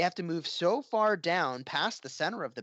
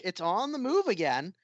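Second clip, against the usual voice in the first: animated, higher-pitched esports call; live play-by-play; 4 semitones higher than usual. Real, not acted. Caster calling the arc on the move, live play-by-play. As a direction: call the action as it unfolds.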